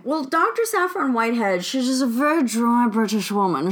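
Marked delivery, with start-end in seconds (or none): 1.6-3.7 clipped, dry English lady; dry British woman voice. Shown as a demonstration. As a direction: speak barely opening your mouth. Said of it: "She talked like this".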